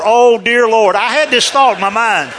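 loud, high, comic dismay; mock panic. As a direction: fret aloud as if you caused a disaster. Panicked thought after scaring old lady.

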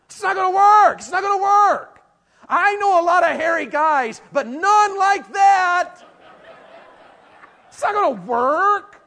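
hammed-up disbelieving yell; mock exasperated shout. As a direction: shout it like it's hopeless. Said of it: "And I'm like".

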